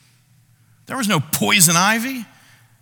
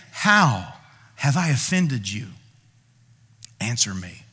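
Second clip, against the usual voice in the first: a low, hushed voice of God; God's answer; 7 semitones lower, 4 dB quieter than usual. Acted. God quietly answering the offended believer, low and grave.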